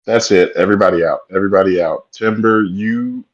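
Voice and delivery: loud urgent yelling; loud shout. Real, not acted. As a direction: order everyone out at full volume. Player panics at dark temple.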